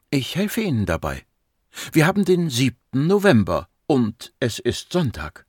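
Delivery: lightly voiced woman doctor, composed; patient psychiatrist. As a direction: help a patient along calmly. (geduldige Psychiaterin, sachlich)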